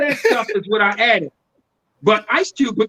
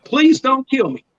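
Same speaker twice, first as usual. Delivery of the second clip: mock Southern accent; 3 semitones higher than usual. Pleading with a traffic cop, mock Southern accent. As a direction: play Southern to placate the officer. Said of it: "I'm talking like them".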